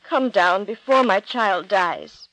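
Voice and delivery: slow, pleading, with a mild catch of a sob; a father holding back tears as he begs. Acted. Nobleman begs Jesus to come before his son dies, a touch tearful. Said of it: "Jesus could hear the sob in his voice".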